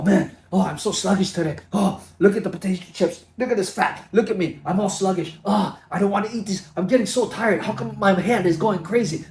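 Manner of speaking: mock a tired, cranky snacker; sluggish, irritated grumbling. Mocking himself after potato chips, whiny and irritated. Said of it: "You're like".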